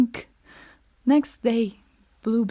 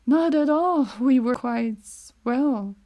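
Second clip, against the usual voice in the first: falsely cheerful; 2 semitones higher, 4 dB louder than usual. Acted. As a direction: cover it up too smoothly. Villain feigns calm.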